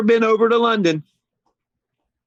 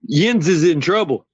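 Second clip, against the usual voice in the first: mock Pittsburgh; 3 semitones lower than usual. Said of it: "do the accent of every team".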